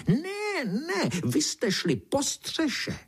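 very high squeal, then slow insistent high beetle voice; shrieking beetle. Acted. The beetle corrects the boy about the roof, slow high squeal. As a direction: squeal the no, then drag the rest out. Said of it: "černý brouk vřískal dál".

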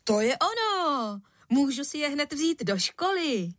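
high, eager burst of joy; excited cry. A narrator's reading. Boy thrilled by his father's shoes, crying out. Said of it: "vykřikl".

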